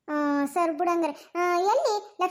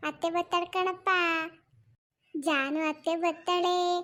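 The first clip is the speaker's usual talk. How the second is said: put-on cooing baby talk. Telling baby who is coming.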